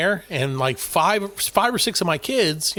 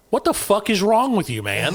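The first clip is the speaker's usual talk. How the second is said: incredulous retold challenge, pitched up; mock-exasperated comeback to a rival; retold exasperation; 3 semitones higher than usual. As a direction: ask it like you can't believe this guy. Retold face-off with rival coach.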